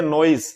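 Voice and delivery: नॉइज ending in a hissed S; mispronounced noise. Shown as a demonstration. Teacher quoting children's mistake, mispronounced noise with final S. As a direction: say नॉइज with an unvoiced 's' at the end. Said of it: "कुछ बच्चे इसको बोलते हैं".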